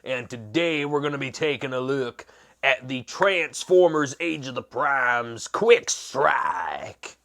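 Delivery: badly faked cowboy accent; terrible cowboy accent. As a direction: greet the viewers like a hammy cowboy. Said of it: "I'm doing a terrible cowboy accent".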